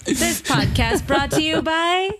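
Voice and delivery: mock sponsor read. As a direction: parody a podcast sponsor plug. Parodying a podcast sponsor read.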